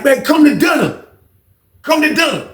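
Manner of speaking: high shouted call; urgent call. Retold or imitated. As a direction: holler it high through the door. Homeboy calling through door.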